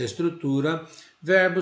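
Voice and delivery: ordinary talk, nothing marked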